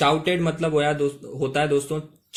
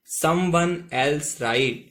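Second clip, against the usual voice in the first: slow model reading; much slower than usual. Shown as a demonstration. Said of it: "ठीक है दोस्तों".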